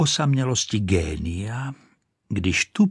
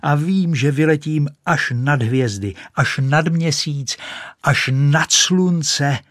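high, exultant boasting climbing upward; high, loud storybook rapture; shouting; 7 semitones higher, 5 dB louder than usual. A narrator's reading. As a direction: cry out in rising excitement. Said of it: "křičela".

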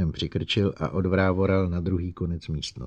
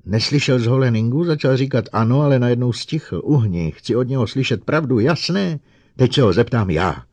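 angry shouting; 5 semitones higher, 8 dB louder than usual. Acted. Bogert and Lenning quarrel.

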